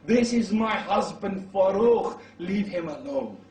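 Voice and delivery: wife crying out loud, slow at first; shout. Acted. Wife shouting to the crowd to leave her husband alone, loud and slow. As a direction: call out his name across the street. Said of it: "She shouts".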